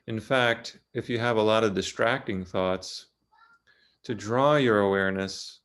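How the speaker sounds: calm, unhurried guidance with long pauses; measured meditation-teacher delivery; guided meditation. Real, not acted. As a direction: ease listeners gently into the body, leaving long silences. Leads a guided body meditation.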